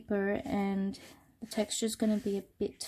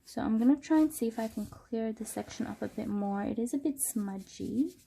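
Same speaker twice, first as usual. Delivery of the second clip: stuffy nose from a cold; sick and a bit nasal. Real, not acted. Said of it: "excuse my nasally voice".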